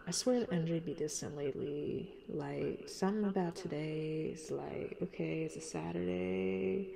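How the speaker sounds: husky, smoky tone. Real, not acted. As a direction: let the voice sound smoky. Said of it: "my voice is so smoky right now".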